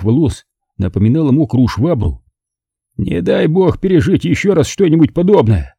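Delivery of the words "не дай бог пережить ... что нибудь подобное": higher, breathed out in relief; deep exhale. A narrator's reading. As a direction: Pete shaken after the shootout, exhaling relief. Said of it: "глубоко выдохнул он".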